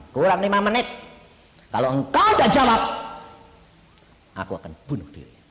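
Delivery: loud rising plea, then a fast drop; desperate ultimatum. Retold or imitated. Young man giving God a loud desperate deadline. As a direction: push the deadline hard at God.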